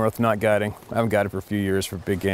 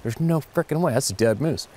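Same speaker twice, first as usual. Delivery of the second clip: retold disbelief; 6 semitones higher than usual. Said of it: "I'm thinking".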